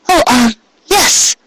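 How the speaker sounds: unsure, drawn-out reply; high, slow hesitant mare voice. Acted. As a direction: Cupcake nervously stalling. Cupcake answers nervously.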